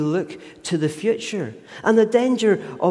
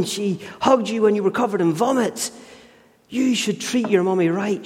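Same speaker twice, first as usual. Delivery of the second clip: a hint of a cross dad, scolding; cross father; 3 semitones higher than usual. Father telling off his daughter, lightly voiced stern scolding. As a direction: scold the spoilt child, mildly stern. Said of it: "He naturally gets cross with the daughter and says".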